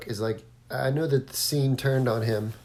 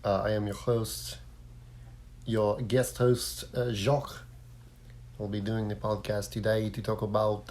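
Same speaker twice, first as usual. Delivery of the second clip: host in a put-on French accent; 4 dB quieter than usual. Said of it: "I took my French accent as far as it could go".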